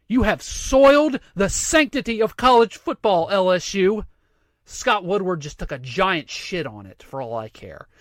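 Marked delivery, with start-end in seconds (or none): 0.1-4.0 mock sanctimony. Voices sanctimonious outrage of critics.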